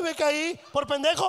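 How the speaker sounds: mock tearful kid; whimpered complaint of a fallen child; put-on crying. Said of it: "venía uno llore y llore".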